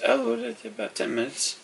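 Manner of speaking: very high, soft character voice; newcomer's character voice. Acted. Newcomer answers the host about his friend, high soft voice. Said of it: "As he goes".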